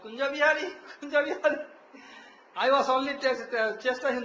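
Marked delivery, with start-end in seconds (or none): 0.0-1.6 raised, higher-pitched call of a name; lightly acted call, lifted at the end. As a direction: imitate summoning a helper.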